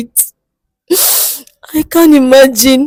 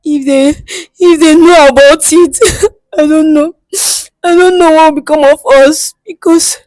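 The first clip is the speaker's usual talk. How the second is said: crying; 5 semitones higher than usual. Acted. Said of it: "Don't cry".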